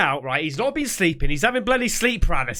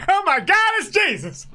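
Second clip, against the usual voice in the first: mock amazed gasp; 10 semitones higher, 3 dB louder than usual. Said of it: "look down at the froth and go".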